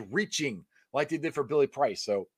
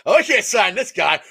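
louder mock doubter; 3 semitones higher, 9 dB louder than usual. To his co-host, a louder mock doubter. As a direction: scoff like a doubting fan. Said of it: "mocking doubters".

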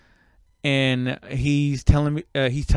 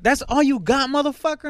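mocking robber taunt; 12 semitones higher than usual. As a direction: imitate the robber's taunt in a much higher voice. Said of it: "'cause they went like".

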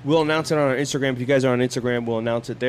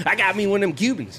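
mock redneck brag; 8 semitones higher, faster than usual. Joking brag, high fast voice.

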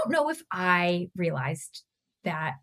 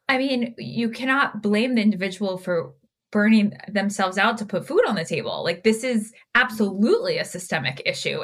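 frustrated, with hard emphasis on key words. Real, not acted. Therapist on a soapbox about systemic burnout, frustrated. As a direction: let real frustration into your voice. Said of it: "Can you hear the frustration in my voice".

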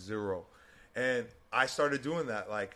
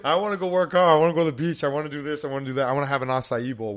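fed up, excited; 4 semitones higher, 10 dB louder than usual. Retold or imitated. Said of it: "was like".

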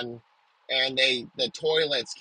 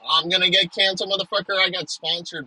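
mock defiant shout; 4 semitones higher, 5 dB louder, faster than usual. Mock influencer boasting defiantly.

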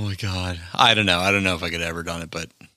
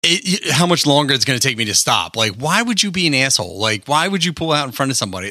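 acted road rage; 4 semitones higher than usual.

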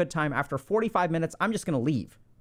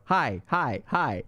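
a badly faked stutter on "Hi, hi, hi"; half-hearted stammered repeated "hi"; attempted stutter; 4 semitones lower, much slower than usual. Shown as a demonstration. Showing a nervous stuttered greeting, badly faked. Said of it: "I can't create a stutter".

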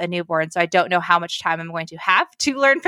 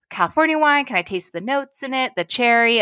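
pretend pondering; 5 semitones higher than usual. Imagines a taster guessing the wine.

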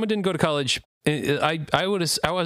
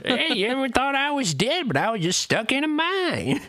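high put-on old miner voice; old prospector voice; 12 semitones higher than usual. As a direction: play the old prospector, pitched up. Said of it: "prospector showed up".

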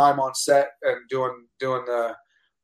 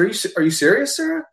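higher, stammered rising question; disbelieving question; 8 semitones higher than usual. Retold or imitated. Actor to casting director after good news, disbelieving. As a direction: stumble into it, hardly believing.

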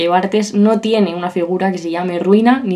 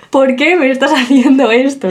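high, complaining little voice of her mouth; mock plaintive mouth; 4 semitones higher than usual. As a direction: voice the mouth's lament. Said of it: "mi boca está ahora mismo diciendo".

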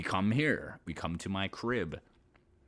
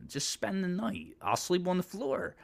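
coaxing plea; 11 semitones higher than usual. Retold or imitated. Pleading date to stay.

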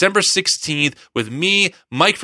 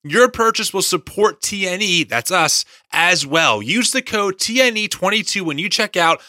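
ad read. Acted. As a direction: sell the Bible like a podcast ad. Host reads sponsor ad.

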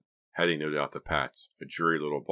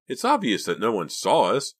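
louder, higher, eager assertion; brightening; 7 semitones higher, 7 dB louder than usual. A narrator's reading. Boy reassures his friends, brightening. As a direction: sound suddenly hopeful and sure. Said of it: "Mickey said, brightening".

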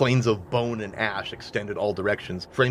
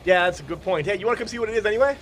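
character voice; 8 semitones higher, faster than usual. Acted. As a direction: voice a cheery crew member. GM Frank, fast.

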